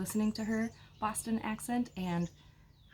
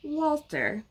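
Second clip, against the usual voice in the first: put-on Boston accent; slower than usual. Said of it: "intentionally to be read in a Boston accent".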